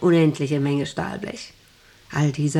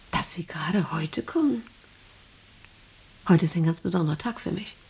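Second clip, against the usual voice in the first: whispered, much softer; hushed intimacy; 4 dB quieter than usual. Acted. Boss whispers to the visitor on her special day. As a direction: draw her in with a secret.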